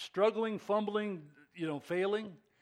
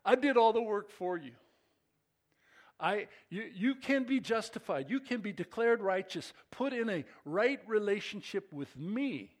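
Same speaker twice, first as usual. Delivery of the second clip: higher, louder, eager voice of God; voicing God; 7 semitones higher, 6 dB louder than usual. Pastor voices God telling people he did the work, raised and louder. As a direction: let God announce good news joyfully. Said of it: "That's God saying".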